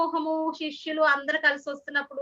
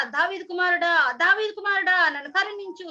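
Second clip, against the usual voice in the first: mock shout rising higher on the repeat; moderately raised storyteller's calling voice; retold insistent cry; 3 semitones higher, 3 dB louder than usual. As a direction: imitate a beggar calling out insistently. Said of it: "మళ్ళీ గట్టిగా".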